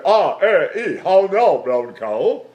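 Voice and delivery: loud demonstration, placed away from the nose. Shown as a demonstration. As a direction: project it loudly with the voice out of the nose. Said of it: "I can get it out of my nose and talk like that".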